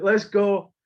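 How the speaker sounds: commanding. Retold or imitated. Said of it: "this is how I started to act towards them".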